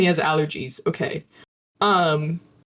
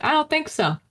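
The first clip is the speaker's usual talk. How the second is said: indignant questions in fake Southern; fake Southern accent. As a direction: push back in a put-on Southern voice. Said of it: "doing this, like, fake Southern accent".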